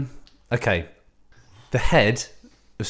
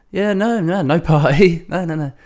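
high, flustered put-on voice; mock awkward denial; 6 semitones higher, 3 dB louder than usual. Daughter denying the party in a high, flustered mock voice. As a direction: play her squirming out of it.

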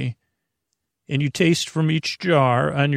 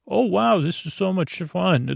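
put-on higher, gushing kid delight; excited kid; 5 semitones higher than usual. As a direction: squeal it like a thrilled child. Kids delighted by new seesaw.

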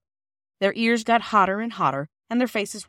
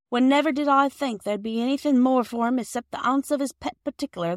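higher, chattering housewife; happy Mrs Perks; 5 semitones higher, 4 dB louder than usual. A narrator's reading. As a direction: run on happily about the birthday.

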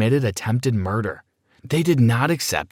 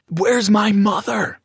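a contained mock scream; mild narrated scream; 11 semitones higher, slower than usual. A narrator's reading. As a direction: cry it out high and slow, holding back volume. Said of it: "I screamed".

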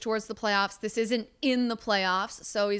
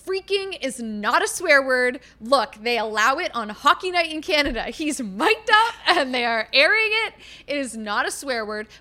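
retold insistent argument; worked-up, emphatic protest; passionate arguing; 5 dB louder than usual. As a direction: re-enact pleading your case to mom. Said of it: "I'm yelling 'cause I'm so passionate about this".

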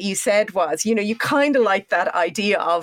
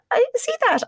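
anxious. Retold or imitated. Retold words to doctor.

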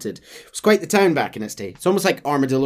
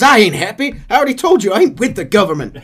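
irritated; 9 semitones higher, 9 dB louder, faster than usual. Acted. John snapping back.

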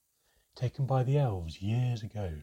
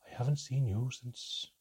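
slow, moved; 3 semitones higher than usual. Acted. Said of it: "he whispered".

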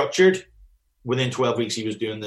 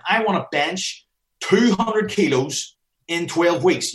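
slow, higher imitation of an overconfident lifter; mock ambitious client; 4 semitones higher, slower than usual. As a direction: lightly act out a boastful gym client. Hypothetical client making a claim.

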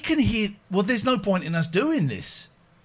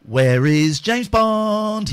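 slow with heavy echo; echoing slow line; echo effect; 3 dB louder, much slower than usual. Acted. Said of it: "Has the echo gone?".

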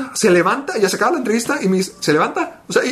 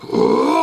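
imitated deep yell. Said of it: "eran los gritos".

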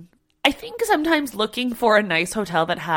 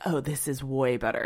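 imitating Steph's delight; 6 semitones lower, 7 dB quieter than usual. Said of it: "she was like".

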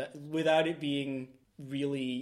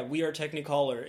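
put-on Maltese accent. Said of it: "Sorry, my Maltese accent came through there".

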